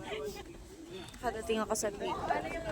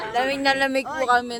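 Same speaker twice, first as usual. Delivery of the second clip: shivering in freezing cold. Real, not acted. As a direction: voice shaking from cold. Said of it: "Nag-iiba na yung boses namin".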